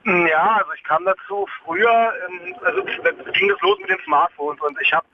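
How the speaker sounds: on speakerphone. Real, not acted. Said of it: "Kannst du deine Freisprechanlage ausmachen?".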